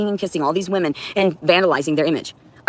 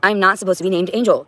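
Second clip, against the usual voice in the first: quoting Angel; 3 semitones higher than usual. Retold or imitated. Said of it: "she was like".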